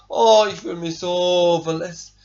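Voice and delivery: lightly voiced whining crybaby; whiny crybaby. Preacher mimics his self-pitying flesh, lightly whining. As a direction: whine like a wounded ego. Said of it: "dann kommt der Jammerlappen".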